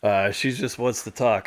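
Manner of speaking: soft, low imitation of dad; dad's mild excuse. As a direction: play it down, quiet and low.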